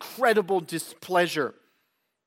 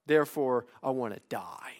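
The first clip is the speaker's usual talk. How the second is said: 1 accusing God; 3 dB louder than usual. Acted. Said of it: "uses this as an accusation against God".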